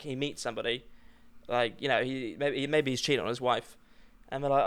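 ordinary talk, nothing marked

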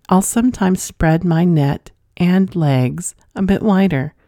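measured read-aloud storytelling with pauses between phrases; unhurried narrator delivery; story narration. A narrator's reading. Reads a listener's letter aloud.

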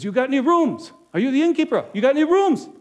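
loud, high, urgent pleading for a room; desperate traveler at the door; frantic. Acted. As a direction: Joseph frantic at the innkeeper's door. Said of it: "He was sort of frantic, very excited".

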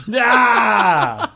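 high whooping cry after botching it; drawn-out laughing yell. Real, not acted. Player botches the fast talker card, laughing yell. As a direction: let out a long, laughing "yaah".

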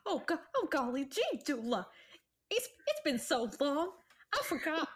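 lightly voiced bashful fellow; a hint of flustered bashfulness; blushing Jeb. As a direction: stammer shyly through the greeting. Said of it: "he blushes and he's like".

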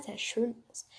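breathy whispered aside, half to herself; whispered giggly aside. Real, not acted. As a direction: drop to a whisper for the secret. Giggly aside about her character.

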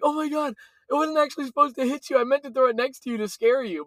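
high, hurried mom impression; imitated flustered excuse. Mom's panicked excuse, retold.

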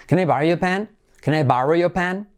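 "your" without its R, as in England; almost silent R. Shown as a demonstration. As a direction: drop the R in "your", lifting to a question. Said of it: "como si estuvieras en Inglaterra".

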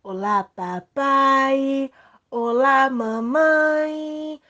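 theme park character. Acted. Cheerful kids' show greeting.

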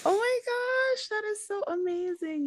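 high, gushing delight. Real, not acted. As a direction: squeal it with real joy. Delighted by eighteen grandkids.

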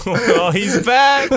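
lightly voiced, giggly Robin Williams bits; a loose, laughing take on a manic comic voice; Robin Williams impression. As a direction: toss off quick manic hellos through laughter. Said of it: "Can you do a short impression for us?".

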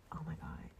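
hushed excited whisper. Real, not acted. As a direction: whisper it like a secret. Whispered excitement over dessert.

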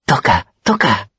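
high, slow, delighted Toca, toca; eager pleading. A narrator's reading. Auri clapping, begging her friend to play, high and delighted. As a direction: beg him to play, bubbling over. Auri claps, begs for music.

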